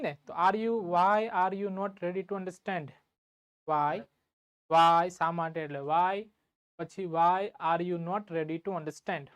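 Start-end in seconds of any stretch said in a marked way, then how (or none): 0.9-2.9 measured, word-by-word teacher dictation; slow dictation. Shown as a demonstration. Dictating the English translation to class. 7.2-9.2 measured, word-by-word teacher dictation; slow dictation. Shown as a demonstration. Dictating the English translation to class.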